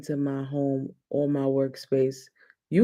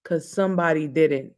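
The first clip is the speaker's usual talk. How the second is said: imitating Amber. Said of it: "She would say this to me all the time".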